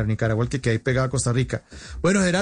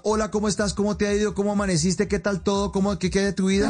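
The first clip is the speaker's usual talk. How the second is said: higher, eager run of greeting questions; long Colombian greeting; 5 semitones higher than usual. Retold or imitated. Imitating a Colombian's long greeting to a friend, eager and higher. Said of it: "Colombiano saluda".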